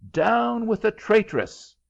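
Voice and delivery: high, loud angry cries; an excited crowd shouting at the girl; crowd yelling. A narrator's reading. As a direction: yell them out like a mob. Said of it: "kept yelling".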